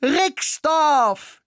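the mouse's very high, loud Rixdorf; excited shout. A narrator's reading. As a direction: cry Rixdorf in delight. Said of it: "schrie ich begeistert".

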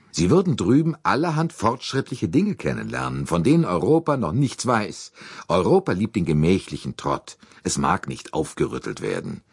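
a lightly voiced, confident Yank; American businessman Hartmann.

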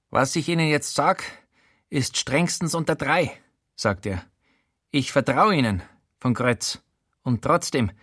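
a hint of a stern threat; stern warning. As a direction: threaten the reporter, half confiding. Showalter warns, threatens to sue.

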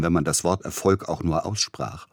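plain reading voice

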